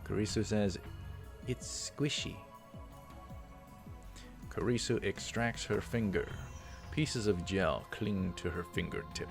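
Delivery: measured visual-novel read-aloud; story narration. Acted. Reads game text aloud.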